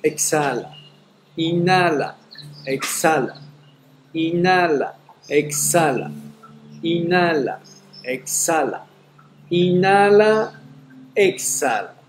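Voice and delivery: respiración fuerte y rápida por la boca; respiración agitada. Shown as a demonstration. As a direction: resopla cada respiración de fuego. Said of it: "exhalamos cinco veces rápidamente por la boca". (jadeo rápido de respiración de fuego)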